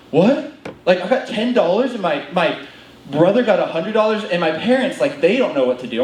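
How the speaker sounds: imitating an indignant brother; high, disbelieving "what", then protest; mock upset sibling complaint; a little upset. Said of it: "he's already a little upset".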